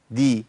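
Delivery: دي as "di", with an i vowel; dal with kasra. Shown as a demonstration. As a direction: take the d of دي straight into "i". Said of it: "الدال المحركة بكسر".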